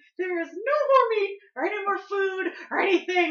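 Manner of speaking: shrill, high-pitched woman's voice. Describing voices heard from the kitchen, in a high, shrill female voice. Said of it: "high, shrill female voice".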